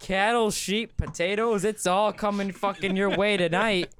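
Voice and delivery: mock Irish accent. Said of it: "Are you trying to be Irish right now?".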